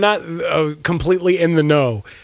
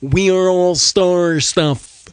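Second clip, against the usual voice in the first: Carl Sagan voice; slower than usual. Shown as a demonstration. Carl Sagan impression round.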